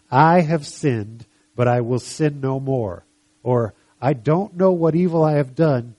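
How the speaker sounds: measured, emphatic Bible reading; scripture reading. Acted. Preacher quoting a friend's advice to Job, measured scripture reading. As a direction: read the verse out deliberately.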